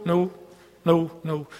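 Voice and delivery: a quick string of noes, fading at the end; mock rejecting channels. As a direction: brush each channel off.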